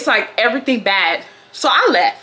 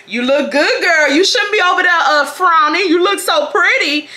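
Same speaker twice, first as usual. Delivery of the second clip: higher-pitched, gushing sweet talk; Stanley; 6 semitones higher, 3 dB louder than usual. Acted. Imitating a man flattering her across the gym, gushing. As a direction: pour on eager compliments, hammed-up. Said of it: "he's literally like".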